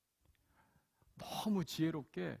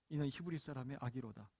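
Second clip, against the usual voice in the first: 이는 히브리 사람의 아기로다 said again, softer and falling; softer repeat; 2 semitones lower, 5 dB quieter than usual. Shown as a demonstration. Preacher repeats the princess's words to the congregation, softer. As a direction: drop the voice on the repeated line. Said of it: "바로의 딸이 하는 말이 무엇입니까".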